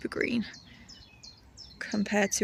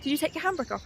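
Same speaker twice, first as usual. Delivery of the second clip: alarmed question, pitched higher; second worried check, voice up; panicked thought; 6 semitones higher, faster than usual. Retold or imitated. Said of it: "And I'm like".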